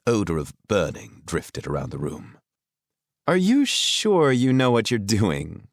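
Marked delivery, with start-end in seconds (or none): 3.3-5.7 amused. Acted. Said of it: "Brenna asked, amused".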